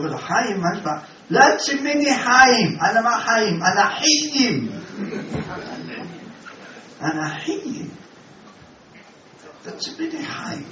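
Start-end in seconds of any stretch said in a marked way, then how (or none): 1.3-4.7 put-on Iraqi accent. Iraqi man insisting on his name Haim, Iraqi accent. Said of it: "זה אחד עיראקי". 9.7-10.6 put-on Iraqi accent. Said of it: "זה אחד עיראקי".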